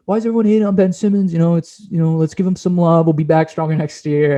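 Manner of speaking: lightly voiced upbeat player; imitating Dwight Howard. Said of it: "He said, like".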